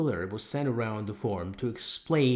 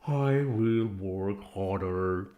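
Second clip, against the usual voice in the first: Boxer's motto; 4 dB louder, much slower than usual. Acted.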